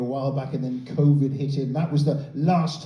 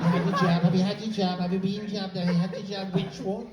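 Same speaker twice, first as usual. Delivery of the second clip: tedious jab chat; 4 semitones higher than usual. Acted. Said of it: "in the U K with tedious conversations".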